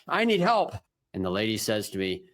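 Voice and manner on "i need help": high-pitched, winded mock plea; re-enacted urgent huffing plea; imitating breathless plea. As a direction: act out pleading while puffed from running. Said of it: "out of breath, puffing and puffing".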